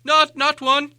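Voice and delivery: high, stammering frightened hobbit; terrified stammer. Acted. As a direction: stutter out in panic, shaking all over. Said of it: "he said immediately afterwards".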